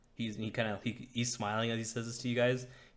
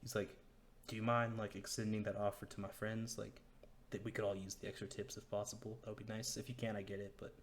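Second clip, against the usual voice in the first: hushed orc aside; 9 dB quieter than usual. Acted. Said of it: "he says this in orc".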